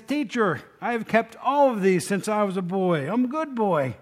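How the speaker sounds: lightly voiced eager young man, proud. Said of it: "The man is excited".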